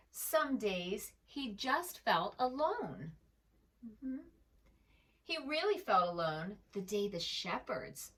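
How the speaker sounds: put-on gentle read-aloud voice for children; storybook narration. A narrator's reading. Narrator reading a picture book to young listeners, gentle.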